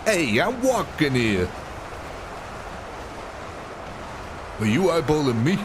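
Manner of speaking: hammed-up Chicago tough talk, big swooping tune; stereotypical Chicago accent. Streamer giving the most stereotypical line, mock Chicago accent. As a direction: challenge someone in a cartoonish Chicago accent. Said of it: "reference for things like Chicago".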